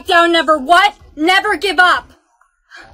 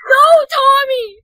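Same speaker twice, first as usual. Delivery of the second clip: drawn-out shout of protest; slow anguished cry; 7 semitones higher, 3 dB louder, slower than usual. Acted. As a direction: yell it to stop him. Shouting at wrong guess.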